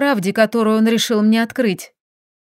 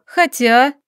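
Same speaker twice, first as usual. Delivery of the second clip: plain reading voice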